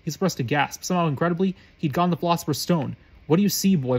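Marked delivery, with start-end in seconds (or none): 3.3-4.0 impatient demand. Acted. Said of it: "Quirrell demanded impatiently".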